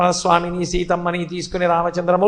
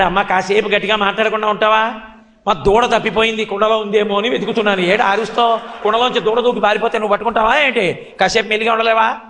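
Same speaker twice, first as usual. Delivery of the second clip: put-on child's cheeky excuse; 3 semitones higher, faster than usual. Child Krishna hushing the milkmaid.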